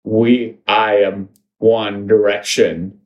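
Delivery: low, halting entranced voice; brainwashed hive mind. Acted. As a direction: intone it like someone under mind control.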